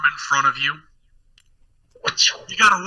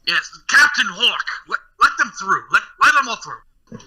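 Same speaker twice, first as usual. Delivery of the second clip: higher, lightly voiced flustered noble; mildly rattled lord's order; flustered Earl giving orders; 5 semitones higher than usual. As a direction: call out a hurried command to the guard. Flustered Earl orders guard to yield.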